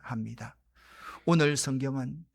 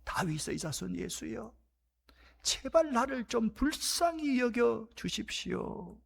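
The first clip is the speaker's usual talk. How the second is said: earnest plea; 4 semitones higher, 4 dB quieter than usual. Acted. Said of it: "이 간절함, 절박함은".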